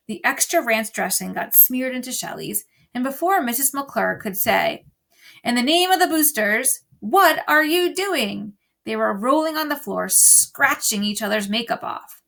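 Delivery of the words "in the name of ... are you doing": higher, louder scandalized cry; outraged, halt the fight; shocked teacher. Acted. Mrs. McClure scolding girls fighting, shocked shout.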